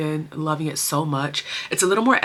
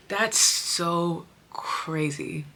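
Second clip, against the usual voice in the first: whisper; 6 dB quieter, much slower than usual. Real, not acted. Awed aside to herself.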